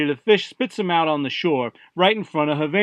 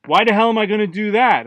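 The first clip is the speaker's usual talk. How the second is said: higher-pitched indignant objection; 5 semitones higher, 4 dB louder than usual. Acted. Fish to god, refusing to spit Jeff out, indignant. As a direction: balk at an unreasonable request. Fish balks at being asked a favor.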